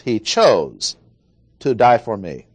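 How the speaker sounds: CHOSE punched, falling steeply, then a pause; weight on CHOSE, then finish deliberately; stress on CHOSE. Shown as a demonstration. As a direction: hit the word chose and let it drop. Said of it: "emphasis on the word chose".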